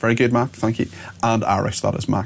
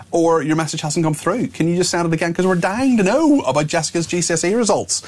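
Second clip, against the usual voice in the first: higher-pitched, keen appeal to a listener; eager plea; 8 semitones higher than usual. Real, not acted. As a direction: ask as if you can't wait to hear. Eagerly asks listener to resend results.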